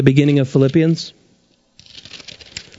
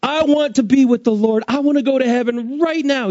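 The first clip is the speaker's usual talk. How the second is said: voicing Paul's longing; 8 semitones higher than usual. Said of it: "he says".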